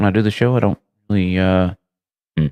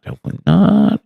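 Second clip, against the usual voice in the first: bright repeat; 10 semitones higher than usual. Real, not acted. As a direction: lift it up brightly to chat. Says the phrase twice, differently.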